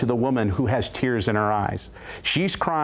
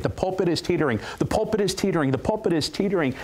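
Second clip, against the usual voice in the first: higher and higher, ever more urgent; building prophecy; 6 semitones higher, faster than usual. Retold or imitated. Preacher prophesying to the congregation, urgently rising. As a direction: chant it as the pulpit shakes.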